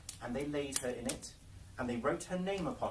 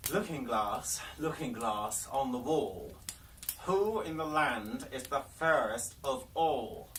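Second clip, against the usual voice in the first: the Queen calls to her mirror, slow and louder; commanding Queen; 4 dB louder than usual. Acted. The Queen to her magic mirror, slow and commanding. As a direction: demand an answer from the glass.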